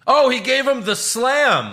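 high, loud, slow mock commentator; Michael Cole call. Mocking the commentator's call for his co-host, slow hammed-up announcer voice. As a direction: stretch it out like a TV announcer milking the move. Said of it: "as Michael Cole called them".

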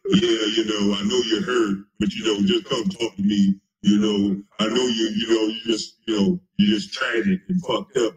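low, mopey mock imitation of the co-host; mocking whiny co-host. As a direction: drag it out like a sulking whiner. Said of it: "online and talking about".

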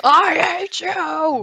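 slow, high, hammed-up Anakin line; stilted old movie melodrama. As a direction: overact it like a cheesy prequel. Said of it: "cheesy acting aside".

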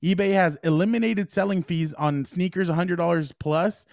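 upbeat sponsor read. Acted. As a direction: read it like a radio ad. Reads eBay sponsor ad.

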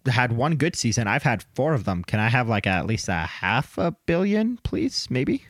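mock pleading player. Host voices a player asking for a raise, mock pleading. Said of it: "it's gonna be like".

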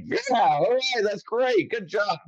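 high, approving fake Irish voice; cheery mock Irish. Guest mimicking Irish fans approving, high mock Irish. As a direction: pitch up, cheering in put-on Irish.

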